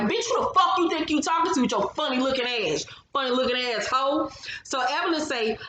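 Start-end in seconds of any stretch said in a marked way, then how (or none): 0.0-4.3 a touch higher, sassy telling-off; pretend cuss-out. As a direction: read her the riot act, half playing. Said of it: "I've been in cuss Shani the fuck out".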